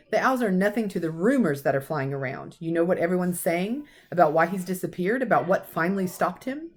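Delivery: lightly voiced stern old professor, cross; a hint of a brisk Scottish teacher scolding; McGonagall. Professor scolding Dumbledore about careless celebrating, lightly stern.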